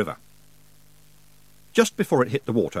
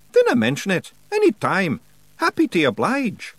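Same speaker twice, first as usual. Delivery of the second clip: high, broad Scots wee man, cheeky and gruff; a higher pitched Scots brawler voice; Scottish pictsie Rob; 9 semitones higher, 4 dB louder than usual. Acted. Pictsie chief thanking nobody for thanks, in a high Scots voice.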